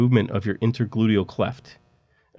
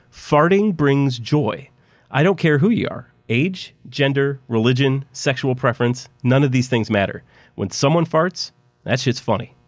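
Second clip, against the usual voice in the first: enthusiastic pitch; 4 semitones higher than usual. Acted.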